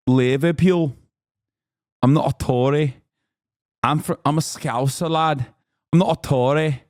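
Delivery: exaggerated, put-on Liverpool Scouser accent; hammed-up Scouser lad from Liverpool; Scouse accent. Shown as a demonstration. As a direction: do a broad comic Scouse impression. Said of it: "what the Scouser accent sounds like".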